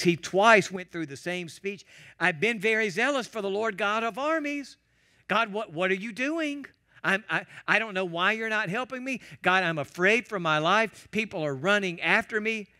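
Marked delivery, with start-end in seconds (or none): 2.2-12.7 pleading with an edge, pitched higher; Elijah's upset cry to God, voice raised in pitch; frustrated complaint. Retold or imitated. Elijah complaining to God, frustrated and pitched up. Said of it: "you could hear the edge in Elijah's voice".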